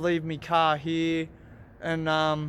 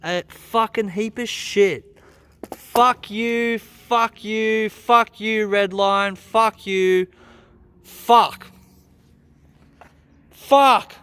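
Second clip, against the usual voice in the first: loud, higher furious cursing; real furious shouting; 5 semitones higher, 6 dB louder, much slower than usual. Real, not acted. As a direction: yell curses at the cracked head. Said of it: "I'm so fucking pissed off".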